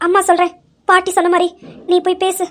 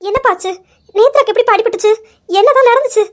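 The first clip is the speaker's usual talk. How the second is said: still tearful; 4 semitones higher, faster than usual. Acted. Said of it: "நீங்க அழாதீங்க".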